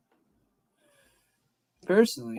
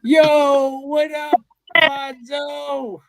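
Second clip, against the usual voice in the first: Sneako impression; 5 semitones higher, slower than usual. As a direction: hype bro greeting. Sneako just sat there like.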